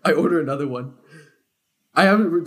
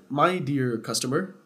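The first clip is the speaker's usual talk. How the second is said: passive-aggressive; slower than usual. Retold or imitated. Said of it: "he was getting passive-aggressive with me too".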